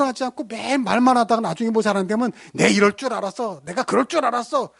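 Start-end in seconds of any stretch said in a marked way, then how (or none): 2.5-4.7 higher, whiny blaming tone; smug I-told-you-so. Retold or imitated. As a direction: sneer it like you knew all along. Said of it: "화를 내고 짜증을 내고". (짜증 섞인 비꼬는 말투)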